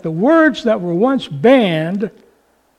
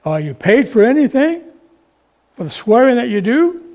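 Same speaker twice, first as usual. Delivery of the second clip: lightly voiced haunting evangelist, a touch higher; a hint of Billy Graham; 4 semitones higher than usual. Preacher voicing the evangelist to the drunk salesman, mildly haunting. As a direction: lift it a little, like a haunting voice from the next seat. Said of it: "you hear the voice of Billy Graham".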